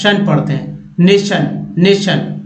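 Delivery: नेशन with tion said as शन; tion as shun. Shown as a demonstration. Teacher shows nation ending as शन. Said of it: "टी आई ओ एन को यहाँ पर श".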